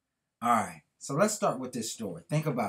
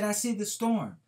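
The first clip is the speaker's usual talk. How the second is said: put-on little girl; 9 semitones higher than usual. A narrator's reading. Little girl voiced in story.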